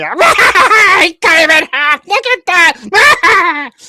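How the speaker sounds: very high, very loud, drawn-out shrill cackle. Voicing an unseen cackler after a player cuts someone in half: high-pitched cackling voice. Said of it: "you hear this high pitched cackling".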